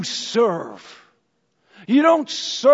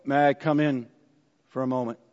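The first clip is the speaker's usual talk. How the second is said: gentle request; 9 semitones lower, 7 dB quieter, faster than usual. Pretend. Zacchaeus at door.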